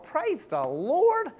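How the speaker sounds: high, slow, drawn-out mock praise; sarcastic praise. Pastor to himself, drawn-out sarcastic relief.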